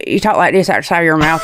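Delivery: Arkansas talk from the side of the mouth; Arkansas accent. Shown as a demonstration. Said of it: "Arkansas and stuff where you talk out the side".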